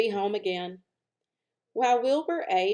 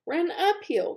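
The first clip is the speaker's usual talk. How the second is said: sheep voice; 9 semitones higher than usual. Acted. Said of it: "cried the sheep".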